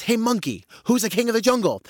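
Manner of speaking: high-pitched challenge from a cocky lion; lion's high, punchy demand; boastful lion. Acted. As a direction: demand it like a boastful jungle king. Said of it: "the story about a lion".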